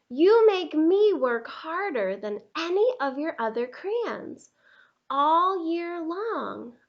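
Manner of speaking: loud, complaining tired crayon voice; overworked Red Crayon. Acted. Teacher reading Red Crayon's letter to Duncan, worn-out complaint. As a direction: plead as the exhausted red crayon.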